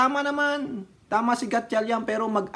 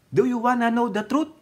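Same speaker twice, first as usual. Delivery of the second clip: quoting the general; 6 semitones higher than usual. Retold or imitated. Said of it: "Sabi nung officer".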